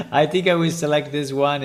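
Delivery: amused, still chuckling; laughing. Real, not acted. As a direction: laugh through the words. Laughing after hearing voice sample.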